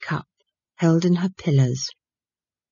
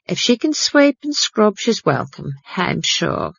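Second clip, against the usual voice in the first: puzzled; 3 semitones higher than usual. Acted. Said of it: "looking puzzled".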